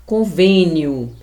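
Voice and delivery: "Convênio" slowly, with closed ê in the stressed vên; closed vowel. Shown as a demonstration. Teacher models a word for pupils, "Convênio" slow with closed ê. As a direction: draw out "Convênio", mouth nearly shut on ê. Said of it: "com a boca quase fechada".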